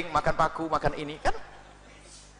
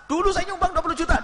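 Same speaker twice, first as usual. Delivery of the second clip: higher, indignant donor voice; mock protesting donor; 11 semitones higher than usual. Preacher imitates a donor insisting he already gave, higher. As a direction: act the offended giver.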